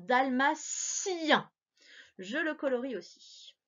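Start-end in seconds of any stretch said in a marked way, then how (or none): 0.1-1.5 "Dalmatien" drawn out gently; slow syllables. Shown as a demonstration. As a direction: repeat "Dalmatien" slowly. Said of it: "J'entends si à la fin".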